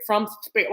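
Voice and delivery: "spirit" with a long, lisping opening s; lisped "spirit". Real, not acted. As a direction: lisp the s in "spirit". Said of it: "Why did I do that?".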